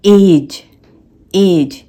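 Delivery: "एज", the dge sounded as j. Shown as a demonstration. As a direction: say "एज" with the final dge as one j. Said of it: "इस पूरे का जो sound है वो हो रहा है ज".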